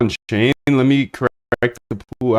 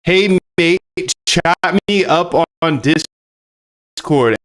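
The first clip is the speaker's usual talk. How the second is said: mock Aussie; 3 semitones higher, much slower than usual. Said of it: "with that Aussie, Aussie talk".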